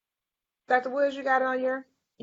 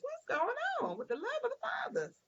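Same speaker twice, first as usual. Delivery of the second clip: mock lament; 6 semitones higher than usual. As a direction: wail it like a comic lament. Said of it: "I said".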